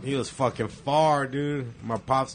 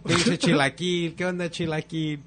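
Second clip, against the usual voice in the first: teasing taunt; 6 semitones higher, 4 dB louder than usual. Retold or imitated. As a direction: drag out the teasing nickname. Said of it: "I would say chilaquil".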